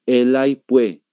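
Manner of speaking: Santa Cruz "pues" without its S; demonstrated Santa Cruz pronunciation; Santa Cruz accent. Shown as a demonstration. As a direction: show the Santa Cruz "pue". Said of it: "escuchen cómo está pronunciando".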